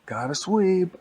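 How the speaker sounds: high, loud character call; broom's catchphrase. Acted. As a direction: belt out the name like a catchphrase.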